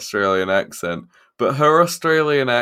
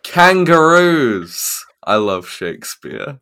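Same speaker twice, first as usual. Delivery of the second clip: hammed-up Aussie, first word shouted high and drawn out; Australian accent; 4 semitones higher, 8 dB louder, slower than usual. Shown as a demonstration. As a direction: put on a mock Australian accent. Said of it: "let me do it in an Australian accent".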